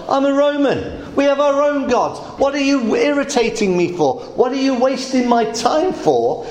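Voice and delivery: brushing off a petty local quarrel; irritated Pilate. Acted. Preacher voices Pilate's irritation.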